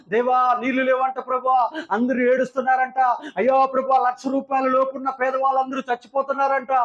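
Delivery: plaintive prayer calling on the Lord; preacher demonstrating intercession, rising to a cry; pleading prayer. Shown as a demonstration. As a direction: beg God for the thirsty city. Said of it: "acts out his prayer".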